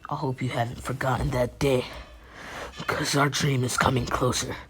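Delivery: understated, earnest and subdued; Naruto. Acted. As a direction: speak with hushed gravity to a close friend. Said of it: "Naruto's like".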